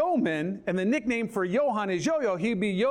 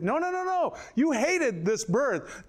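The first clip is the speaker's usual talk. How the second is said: laughing; 6 semitones higher, slower than usual. Retold or imitated. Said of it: "I got down there like".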